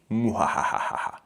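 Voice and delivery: hammed-up villain cackle; mock evil laugh. Evil laugh after victims line.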